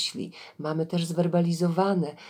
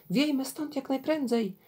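higher-pitched urgent plea to flee; alarmed urging; 8 semitones higher than usual. A narrator's reading. Swimmer urges fellow travellers to flee the spirit, alarmed. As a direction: urge them away, voice lifted high.

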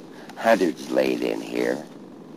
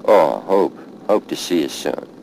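grief outburst; 3 semitones higher, 8 dB louder than usual. Real, not acted. Grief bursts out at grave.

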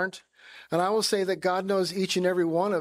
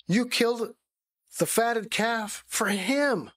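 higher, slow, bitter "you killed the fatted calf"; resentful accusation; 4 semitones higher, slower than usual. Acted. Older son complaining to his father, bitter and slow. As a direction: drag out the grievance, each word a charge.

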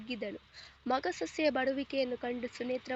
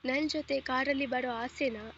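lightly sarcastic husband, understated; a mild sneer under the words; a touch of mocking sarcasm toward his wife. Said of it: "ವ್ಯಂಗ್ಯವಾಗಿ ಕೇಳಿದನು".

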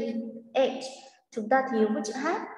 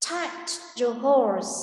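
slow; much slower than usual. Shown as a demonstration. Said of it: "echoes the recording".

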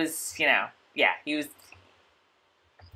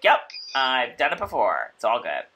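put-on Scottish accent; 7 semitones lower, 5 dB quieter than usual. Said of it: "With that thick Scottish accent".

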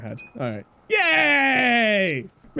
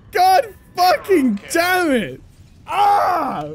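frustrated cry; 5 semitones higher, much slower than usual. Real, not acted. Frustrated after death.

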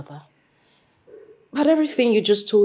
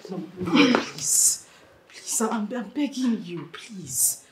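pleading; 9 dB quieter, much slower than usual. Acted. Daughter kneels begging mother.

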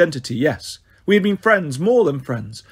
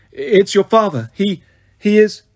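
halting, louder and slower, breaking off; quavering voice; 2 semitones higher, 4 dB louder than usual. Acted. Centurion tells the prince his father died, quavering. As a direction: choke on the news you can't say. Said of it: "His voice quavered".

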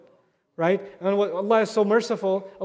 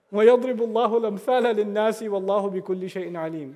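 laughing recitation; much faster than usual. Real, not acted. Recites verse while laughing.

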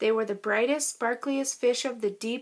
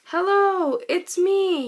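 much higher, louder happy call; joyful call; 7 semitones higher, 5 dB louder, slower than usual. Acted. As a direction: call out in delight to found friends. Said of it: "he called".

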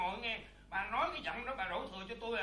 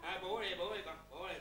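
put-on soft, lower, tender murmur to a baby; soothing baby talk; 4 semitones lower, 5 dB quieter than usual. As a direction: hush the baby gently. Father soothing baby softly. (dỗ con nhẹ nhàng)

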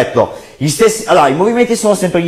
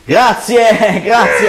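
excited thanks; 8 semitones higher, much slower than usual. Real, not acted. Magician thanks audience, laughs.

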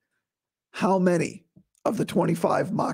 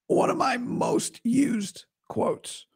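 raised pitch, slow and careful; slow, higher pitched take of "one of my most used quotes"; higher voice to sound better; 6 semitones higher, much slower than usual. Shown as a demonstration. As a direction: lift the voice up to spare it. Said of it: "if I talk like this, sounds a little better".

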